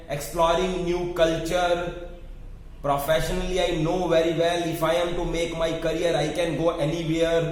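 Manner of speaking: very slow, measured model answer. Shown as a demonstration. Coach showing the candidate a slow model answer. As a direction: lay out each word slowly. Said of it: "बस".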